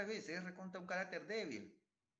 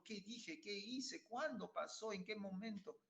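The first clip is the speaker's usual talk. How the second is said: preguntas agudas de inocencia fingida; falso desconcierto; 6 semitones higher, slower than usual. Retold or imitated. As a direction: hazte el confundido, voz muy aguda. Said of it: "al día siguiente llorando". (el marido finge no recordar, agudo y burlón)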